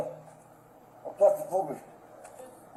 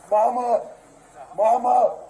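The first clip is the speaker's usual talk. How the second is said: calling for mama; 5 dB louder than usual. Real, not acted. Man pinned down, calling out.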